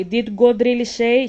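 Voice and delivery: loud, sly question; the serpent again. Acted. Serpent doubting God's word to Eve, loud. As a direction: needle her like the snake. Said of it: "That's the snake asking you questions".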